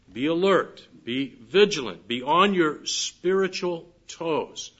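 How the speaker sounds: rally the church to stay awake; preaching exhortation. Acted. Sermon exhortation to the congregation.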